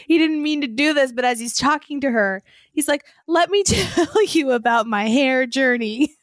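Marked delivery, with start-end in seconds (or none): 3.3-6.1 slow, giggling retelling of the line; laughing through a quote. Retold or imitated. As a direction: quote him while cracking up. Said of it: "I couldn't stop laughing".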